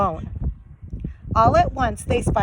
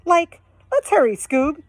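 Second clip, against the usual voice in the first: Shaggy voice; 4 semitones higher than usual. Acted.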